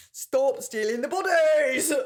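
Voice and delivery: horrible put-on British accent, pitched high. Joining the other speaker's outburst in a joking bit, in a horrible British accent. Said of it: "Horrible British accent".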